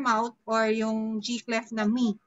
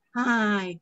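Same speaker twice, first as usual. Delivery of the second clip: HI drawn out and falling; sighing; 2 semitones lower than usual. Shown as a demonstration. Teacher demonstrating sound of a sigh, downcast. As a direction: let HI sink like a sigh. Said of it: "The S I G H".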